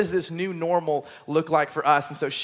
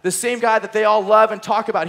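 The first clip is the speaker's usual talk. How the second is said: the penny drops; dawning realization; 2 semitones higher, 4 dB louder than usual. Retold or imitated. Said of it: "he realizes".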